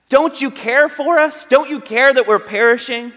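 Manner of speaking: desperate disciples. Retold or imitated. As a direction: ask it as if the boat is sinking. Quoting the disciples' desperate question.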